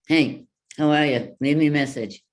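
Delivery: put-on answering machine voice; phone greeting demo. Shown as a demonstration. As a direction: sing out a cheery voicemail message. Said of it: "I could leave that on my phone".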